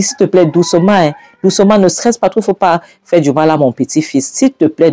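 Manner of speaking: acted high-pitched urgent plea; worried appeal, voice lifted; anxious pleading. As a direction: beg them to go gently. Pleads to spare unborn grandson.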